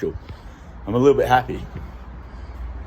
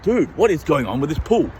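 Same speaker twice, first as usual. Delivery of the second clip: higher, wide-eyed wonder; mock amazement; 5 semitones higher than usual. Finding a pool while walking, mock amazed. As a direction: gawk at the pool in mock surprise. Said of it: "I'm like".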